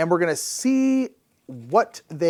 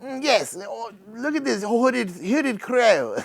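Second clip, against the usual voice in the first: higher-pitched mock ornithologist voice; imagined ornithologist; 6 semitones higher, slower than usual. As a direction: put on a silly accent, admiring a rare bird. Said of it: "that's how I assume ornithologists sound".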